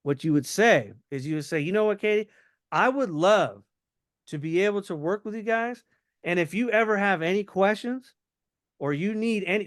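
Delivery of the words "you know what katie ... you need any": casual, winding-down sign-off tone; offhanded, about to leave. Shown as a demonstration. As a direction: sound like you're heading to your next call. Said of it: "my tone of voice is sa-, starting to sound like I'm about to leave".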